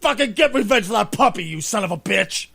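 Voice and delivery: loud, high shout at the TV; yelling at the screen. Retold or imitated. Viewer on the couch yelling at John on screen, loud high shout. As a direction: scream for revenge like a fan on the couch. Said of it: "I legit was going".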